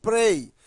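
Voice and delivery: "prei" alone, said loud and firm; stressed syllable PREI. Shown as a demonstration. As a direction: isolate "prei" as the strong syllable. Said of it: "a sílaba forte é o".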